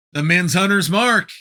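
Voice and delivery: the men's Hunter's Mark called out loud and excited; excited announcer call. Acted. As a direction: belt the title name like a ring announcer. Excited call after title defense.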